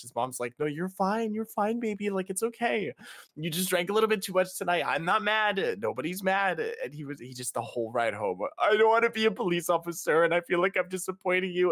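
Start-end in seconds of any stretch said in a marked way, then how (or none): 0.6-6.6 high tender reassurance; mom comforting. Retold or imitated. Mom comforting her drunk son. 8.6-11.7 high, loud tearful whine; high drunk blubbering; drunk wailing. Retold or imitated. Son crying on ride home.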